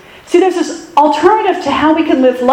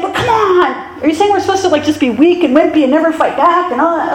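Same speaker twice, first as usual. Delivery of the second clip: higher, lightly voiced doubtful listener; skeptical objection; 4 semitones higher than usual. Congregation member objecting to the pastor, mock skeptical. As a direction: push back as an unconvinced listener. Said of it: "Some of you are saying".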